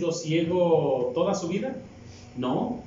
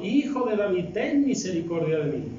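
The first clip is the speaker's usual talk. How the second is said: higher-pitched imitation of a pleading call, easing down; mild retold cry; 3 semitones higher than usual. Blind man calling to Jesus for mercy, mildly acted retold cry. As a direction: call out for mercy, without really shouting. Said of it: "él daba mayores voces diciendo".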